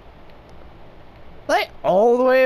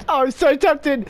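bursting out, eager and giddy; excited temptation; 3 semitones higher than usual. Real, not acted. Gamer to viewers, about to shoot teammates, eager outburst. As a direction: let the temptation spill over.

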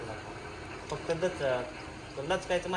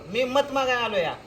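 folded-hands plea; 4 semitones higher than usual. Shown as a demonstration. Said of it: "हात जोडून".

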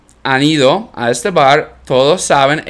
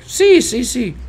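eager yes; 8 semitones higher, slower than usual. Retold or imitated. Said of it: "Y es like".

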